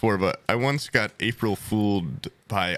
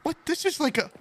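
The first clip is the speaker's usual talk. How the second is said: mock disbelief; 6 semitones higher than usual. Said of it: "I was like".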